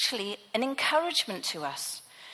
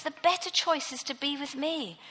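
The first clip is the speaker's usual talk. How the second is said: higher, firmer but loving reproof; a lightly voiced Jesus rebuking Martha with affection; affectionate rebuke; 4 semitones higher than usual. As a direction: gently scold her to rest. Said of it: "this affectionate rebuke".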